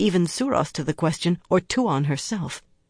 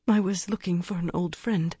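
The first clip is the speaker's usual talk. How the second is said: quavering; 4 dB quieter than usual. Acted. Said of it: "she quavered".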